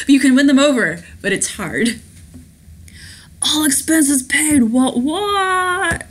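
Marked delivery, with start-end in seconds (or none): 3.4-6.1 high, drawn-out party whoop; hammed-up sing-out of glee; celebrating. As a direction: crow it slowly and high. Passenger celebrating, acted out.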